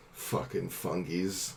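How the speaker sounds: slow, soft muttered slur; low-volume grumbled aside; muttered under breath. Acted. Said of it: "utter something under her breath".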